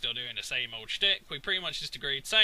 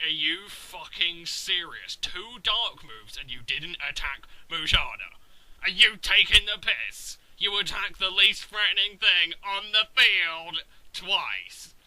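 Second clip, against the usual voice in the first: slow incredulous disbelief building to a louder, higher outburst; exasperated rant; 3 semitones higher, 5 dB louder than usual. Retold or imitated. Ranting at the opponent's moves, exasperated then louder. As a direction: vent it at the opponent, disbelief into anger. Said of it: "And I'm like".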